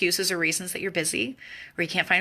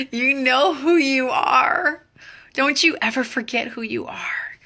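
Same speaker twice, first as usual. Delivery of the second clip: rousing declaration; 5 semitones higher, 5 dB louder, slower than usual. Real, not acted.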